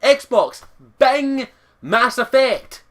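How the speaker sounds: deliberate Scottish command; Scottish gamer commanding his console; slow Scottish voice command. Shown as a demonstration. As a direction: spell out Xbox, Bing, Mass Effect slowly in a Scottish accent. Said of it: "does not understand my accent".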